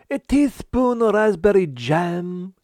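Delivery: high, loud and slow; emphatic. Acted. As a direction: spell it out slowly and loudly. Chef insists, host asks again.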